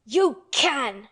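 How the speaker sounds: loud, high snap back; shouted. A narrator's reading. Mary shouting down the sobbing boy, loud. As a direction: shout him down. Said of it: "shouted Mary".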